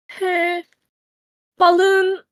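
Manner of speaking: a voice that breaks as it rises on the name, high and strained; voice cracking. Acted. Finn on his knees, calling after the words, voice cracking. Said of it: "his voice cracks a bit".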